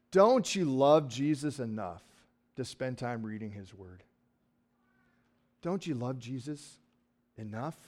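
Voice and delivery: mock preacher, soft and pressing; guilt-tripping preacher. Preacher mimicking a guilt-tripping preacher scolding the congregation. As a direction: lay on the guilt gently. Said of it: "the preacher stands up and says".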